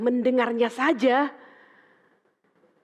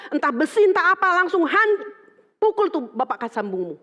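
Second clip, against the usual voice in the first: fierce instruction; 4 semitones higher, 4 dB louder than usual. Retold or imitated.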